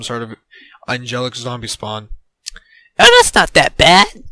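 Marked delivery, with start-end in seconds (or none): 3.0-4.2 loud, high exclamation; exclaiming. A narrator's reading. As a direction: burst out with it, pitched up. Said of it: "Joey exclaimed".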